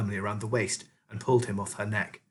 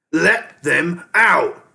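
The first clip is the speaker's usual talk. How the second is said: slow, drawn-out scream, high and loud; 6 semitones higher, 7 dB louder, much slower than usual. A narrator's reading. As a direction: stretch every word into a scream. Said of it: "Ham and Pork screamed".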